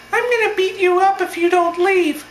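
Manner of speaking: very high puppet-voiced threat; Elmo voice. Heckler threatening to beat up protesters, in puppet falsetto. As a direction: threaten in a squeaky mock falsetto. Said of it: "His voice sounded just like this".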